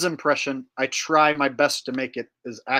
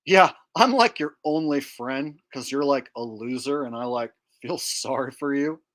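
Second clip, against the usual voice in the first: lightly voiced dopey teen condescension; Butthead. Telling his only friend he's a loser, Butthead impression. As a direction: dim cartoon slacker needling his pal. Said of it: "a Beavis and Butthead impression".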